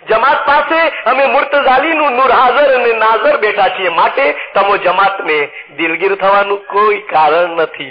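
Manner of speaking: a touch of the Imam's solemn reassurance; mild Imam proclamation. Acted. Voicing the Imam consoling the jamat.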